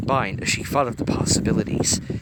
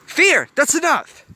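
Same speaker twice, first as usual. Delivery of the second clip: much higher, loud, slow sharp rebuke; loud, far higher, slow rebuke; snapped; 9 dB louder, slower than usual. A narrator's reading. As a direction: shut Fear down. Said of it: "Joy snapped".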